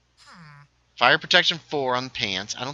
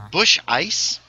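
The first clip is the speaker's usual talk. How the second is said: playful voice; 8 semitones higher, 8 dB louder than usual. Pretend. Naming cheap beer, voiced.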